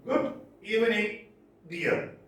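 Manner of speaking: "Good evening, dear" with beats set apart; stressed-syllable rhythm. Shown as a demonstration. Lecturer reading an example of stressed and unstressed syllables, stressed-syllable rhythm. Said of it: "red are stressed".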